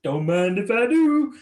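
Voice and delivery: loud, high mock Homer glee; Homer's glee. Homer gleefully agreeing to go crazy, loud and high. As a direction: belt it out with manic delight. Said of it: "and just".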